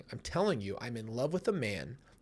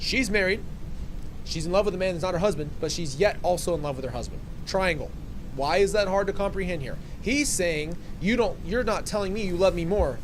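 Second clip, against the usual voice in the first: emphatic explaining; 5 semitones higher, 4 dB louder than usual. Real, not acted. Breaking it down loudly.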